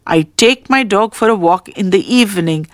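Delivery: "take" stressed, the rest even. Shown as a demonstration. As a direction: put the weight on the word "take". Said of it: "The stress is on take".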